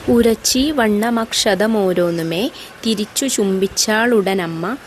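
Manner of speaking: slow, measured verse reading with drawn-out vowels; poem recitation. Acted. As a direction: recite the verse slowly, lingering on phrase ends.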